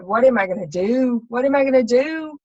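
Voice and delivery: pleading and rising, a touch of tears; retold breakdown. Telling her friend on the phone, distraught and pleading. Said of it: "just broke down".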